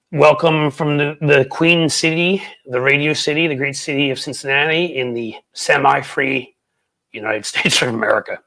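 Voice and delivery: mild announcer-style welcome; show opening. Shown as a demonstration. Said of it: "my, my new opening".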